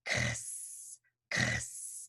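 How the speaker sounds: voiceless "kss", a K released into S; X sound. Shown as a demonstration. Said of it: "So it goes".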